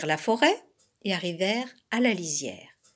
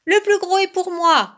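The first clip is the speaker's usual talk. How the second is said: high, loud grabbing cry; greedy shout; 10 semitones higher, 8 dB louder than usual. A narrator's reading. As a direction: shout your claim like a squabbling cub. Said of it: "crièrent les deux oursons". (cri aigu et fort d'ourson gourmand)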